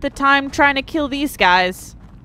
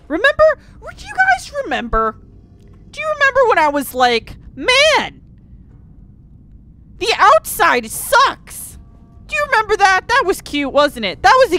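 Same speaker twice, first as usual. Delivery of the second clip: mock sentimental; 6 semitones higher, 4 dB louder than usual. Real, not acted. Sarcastic reminiscing to viewers.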